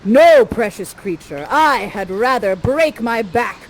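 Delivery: lightly voiced heroic lover, slow and emphatic; slow, declamatory stage prince, loud at the start; Ferdinand. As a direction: refuse gallantly in weighty verse. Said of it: "Miranda goes to Ferdy".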